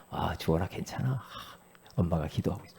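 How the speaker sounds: put-on quiet, tender words to a child; soft reassurance. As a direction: soothe your child gently. Mother reassuring child softly. (아이를 다독이는 조용하고 다정한 목소리)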